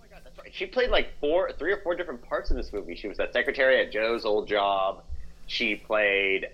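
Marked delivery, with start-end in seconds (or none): 0.0-0.5 breathy whisper; whispered realization. Real, not acted. Sudden recall, breathy.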